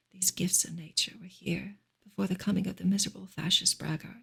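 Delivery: hushed bedtime-style reading of a novel; story narration. Acted. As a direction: read the novel gently, as if to lull a listener. Reads novel aloud on stream.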